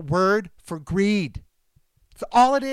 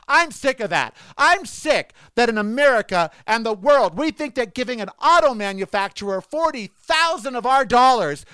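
angry rant; 4 semitones higher than usual. Real, not acted. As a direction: vent real fury at the prices. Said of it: "See, now I'm all angry".

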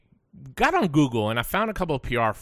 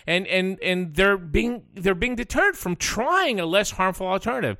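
rising pitch, fired-up indignation; heated rant; 5 semitones higher than usual. Real, not acted. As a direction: build the outrage, voice climbing. Ranting about doctors on news.

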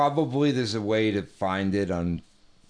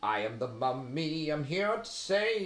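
mummy voice; 5 semitones higher, 4 dB quieter than usual. Pretend. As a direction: intone like an ancient mummy risen from the tomb.

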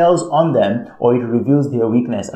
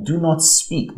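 higher-pitched mock stern command; threatening; 5 semitones higher than usual. High priests forbidding the apostles to preach, mildly threatening. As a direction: issue it as a firm retold warning. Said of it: "That's the threatening voice".

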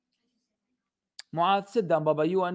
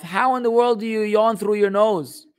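higher-pitched, baffled disbelief; raised-pitch, incredulous question; 5 semitones higher, 4 dB louder than usual. Real, not acted. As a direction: ask it in real bewilderment.

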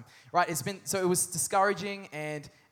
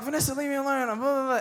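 higher mock-irritated brush-off; hammed-up snap, pitch raised; mock grumpy; 7 semitones higher, faster than usual. Sick husband tells his wife to leave him alone, hammed-up. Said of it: "And I'm like".

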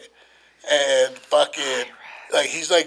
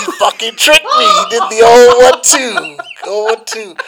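laughing; 7 semitones higher, 9 dB louder than usual. Real, not acted. Laughing outrage at trick.

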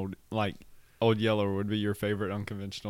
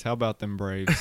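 sports cheer. Real, not acted. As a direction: shout it like a fan in the stands. Cheering for the Braves.

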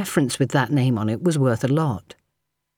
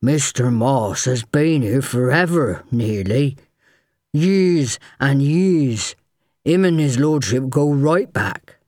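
nervous; slower than usual. A narrator's reading. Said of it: "who swallowed nervously".

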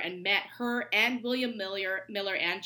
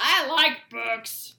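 slow, high and loud, stretched out; sing-song agreement with a grin; drawn-out echo; 5 semitones higher, 9 dB louder, much slower than usual. Real, not acted. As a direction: savor each word of I like books. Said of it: "echo with emphasis".

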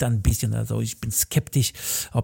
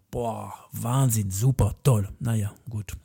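sarcastic mock awe; 4 semitones lower, 3 dB quieter than usual. Dog trainer mocking TV fans with sarcastic awe. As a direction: fake admiration, dripping irony.

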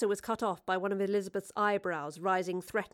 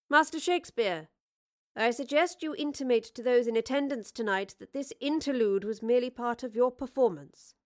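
regal queen voice; 3 semitones higher than usual. Acted. Queen commands Shakespeare.

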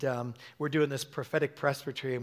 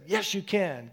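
firm, higher-pitched encouragement; strong exhortation; 4 semitones higher, slower than usual. Retold or imitated. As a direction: stir them up with it. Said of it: "it was really strong".

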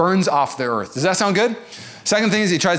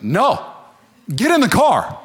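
higher, louder get in the car; exasperated outburst; 5 semitones higher, 3 dB louder, slower than usual. Retold or imitated. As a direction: snap it out, fed up. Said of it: "You'd be like".

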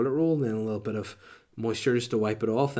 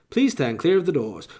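higher, louder mock announcement; monorail announcer; 5 semitones higher, 5 dB louder than usual. Monorail at Disney World warning passengers, announcer voice. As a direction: imitate a recorded safety announcement. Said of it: "something I heard on a monorail".

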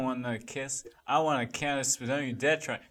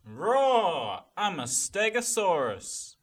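goofy stegosaurus; 5 semitones higher, much slower than usual. Acted. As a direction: play a silly dinosaur announcing itself. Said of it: "stegosaurus going rage mode".

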